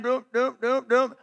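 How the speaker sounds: plane bouncing "doom, doom"; imitated landing bumps. Storyteller imitating the hard landing, in evenly thumped syllables.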